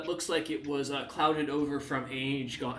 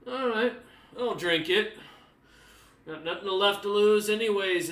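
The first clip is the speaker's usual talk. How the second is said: put-on resigned old sailor, a bit louder; weary old man; 5 semitones higher, 4 dB louder than usual. Old crewman resigned to drinking the vial, tired old voice. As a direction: shrug it off like you've nothing to lose.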